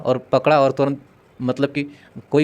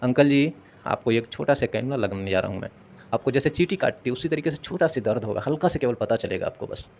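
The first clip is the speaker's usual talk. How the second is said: gentle reassurance; 4 dB quieter than usual. Shown as a demonstration. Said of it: "आप उस तरीके से बोलोगे".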